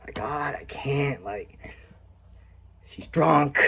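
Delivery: whispered inner thought; whispered conflicted thought. Retold or imitated. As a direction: think it in a hushed whisper. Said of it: "And I'm thinking".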